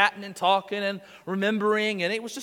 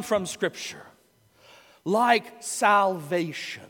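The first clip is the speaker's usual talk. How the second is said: slow, emphatic pulpit preaching. Acted. Pastor preaching to his congregation, slow and emphatic. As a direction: drive it home from the pulpit.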